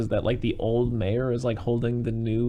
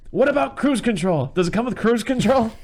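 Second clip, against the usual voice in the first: much higher, louder whiny demands; mock whiny mayor; 11 semitones higher, 6 dB louder than usual. Old mayor demanding his job back, high whine. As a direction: whine like a spoiled old politician.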